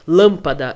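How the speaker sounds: LÂMPADA with a loud, strong first syllable; sílaba tônica forte. Shown as a demonstration. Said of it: "Pra dar aquele som mais forte". (Lâmpada com a primeira sílaba bem forte)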